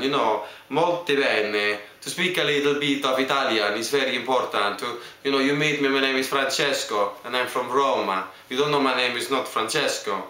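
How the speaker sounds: a playful Italian accent. Shown as a demonstration. Introducing himself as an Italian, in an Italian accent. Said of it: "then to go into Italian".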